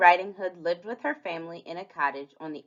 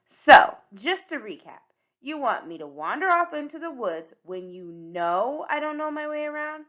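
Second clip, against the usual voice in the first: lightly voiced child, rising disbelief; incredulous Little Red; 8 semitones higher, 6 dB louder than usual. Red doubting Hook's flower suggestion, incredulous. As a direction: question it pointedly, climbing at the end. Plays Red questioning Hook.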